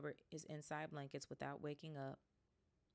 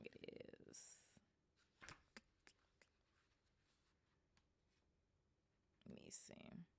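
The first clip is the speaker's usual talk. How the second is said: whispering; 19 dB quieter, slower than usual. Real, not acted. Checking chapter length quietly.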